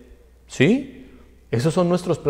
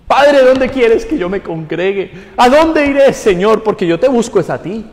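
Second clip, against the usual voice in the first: raised-pitch plea to God, acted out; mock pleading prayer; 8 semitones higher, 5 dB louder than usual. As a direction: imitate an earnest seeker crying out to the Lord. Acts out a churchgoer's prayer.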